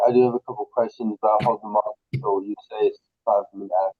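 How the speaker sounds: muffled voice, as if through a hand. Real, not acted. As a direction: talk muffled like a covered mic. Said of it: "you sound very muffled".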